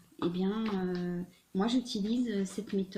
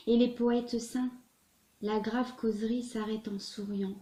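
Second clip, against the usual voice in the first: measured poetry recital with distinct pauses between phrases; poem reading. Acted. Tarot reader reading a Hugo poem to her viewers, poem recital. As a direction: recite the verse, lifting line openings, letting line ends fall.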